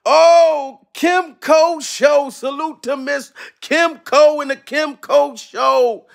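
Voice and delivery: slow, high, drawn-out shout of the name; stretched excited call-out for the donor; hype shout-out. Real, not acted. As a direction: announce her like a hype man. Hyping a viewer's super chat.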